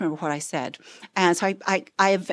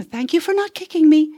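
higher, louder mocking replay of the mom; mock repeated thanks; 9 semitones higher, 7 dB louder than usual. Speaker mocking mom's plea to kicking son, hammed-up. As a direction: parody her useless repeated plea. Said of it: "she did that about four times".

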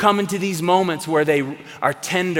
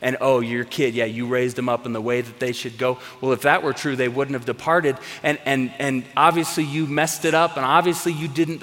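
lower, taunting mock devil voice, not a real whisper; 4 semitones lower than usual. Devil taunting parents about failures, lower mock whisper. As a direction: hiss accusations into a guilty ear, lightly voiced. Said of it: "the devil comes right in and starts whispering".

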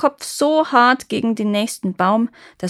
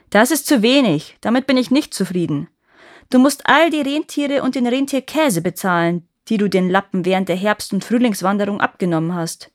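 put-on demanding boy; 4 dB louder than usual.

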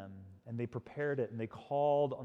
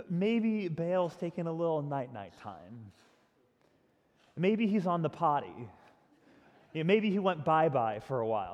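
light teasing sing-song, a bit higher; mocking baby talk; 4 semitones higher, 4 dB louder than usual. Preacher voicing Elijah mocking the prophets, light teasing baby talk. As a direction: tease them as if their god were a toddler. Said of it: "he just mocks them".

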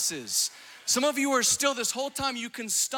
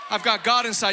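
louder, ringing proclamation; shouted declaration; 4 dB louder than usual. Acted. Preacher repeating the line to crowd, louder shout. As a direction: shout it to the room. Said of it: "repeated louder".

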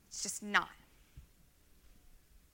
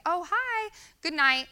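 much higher, chirpy, rushed greeting; mock harried spouse; 9 semitones higher, 4 dB louder than usual. Busy couple greeting each other at bedtime, mock chirpy. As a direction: play a frazzled spouse passing in the hall.

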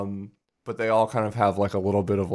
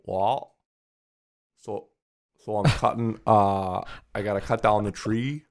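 Maine accent. Shown as a demonstration. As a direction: have a rough go at a Maine accent. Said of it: "give me a try".

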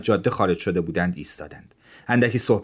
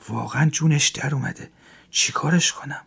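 inner thought; 6 semitones higher than usual. A narrator's reading. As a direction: mutter it to yourself, worried. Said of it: "با خودش فکر کرد".

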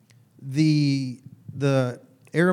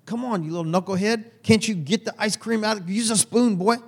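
higher, hammed-up scolding of a little knucklehead; mock scolding dad; 5 semitones higher than usual. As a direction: play the impatient young father, half joking. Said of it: "That's like me getting mad".

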